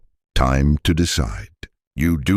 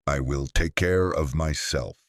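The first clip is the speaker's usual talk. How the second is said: slow and softer, each word placed with care; said slowly; 6 dB quieter than usual. Shown as a demonstration. Teacher guiding learners to say it slowly and softly. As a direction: let it settle, slowly and gently. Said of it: "Say it slowly".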